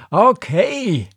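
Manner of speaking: high, loud cry of giving in; exasperated shout. Acted. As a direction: yell it, pitch leaping up. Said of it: "schrie er".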